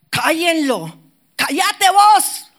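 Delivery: loud high shout to shut him up; crowd scolding. Retold or imitated. Crowd silencing the blind beggar, loud angry shout. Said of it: "todos lo empezaron a callar".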